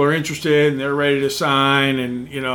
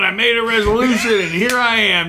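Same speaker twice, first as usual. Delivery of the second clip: mock GM; 5 semitones higher than usual. Mocking a hungover GM.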